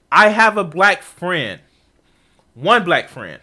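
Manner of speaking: slow mocking quote. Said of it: "That's what this argument is".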